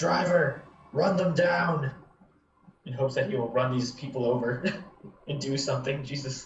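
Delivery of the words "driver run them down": high-pitched yelling. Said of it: "I'm gonna yell to Kumata".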